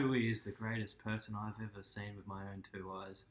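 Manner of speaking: put-on imitation of a co-host; mocking friend impression. Imitating co-host praising a footballer, mock gushing. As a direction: play your friend as a gushing fan. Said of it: "That is your impression".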